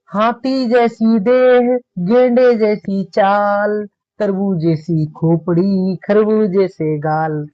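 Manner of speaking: slow, drawn-out playful verse; poem recitation. Acted. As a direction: recite the funny couplet very slowly. Teacher recites comic verse. (धीमा हास्य काव्य पाठ)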